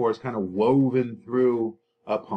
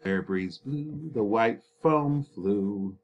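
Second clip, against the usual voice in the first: poem reading; slower than usual. Shown as a demonstration. Reads example slowly.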